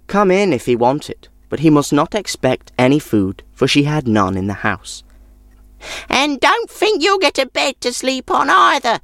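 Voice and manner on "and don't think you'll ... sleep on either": put-on very high crabby old woman voice; grumpy old woman. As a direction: sour old crone refusing. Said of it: "she added".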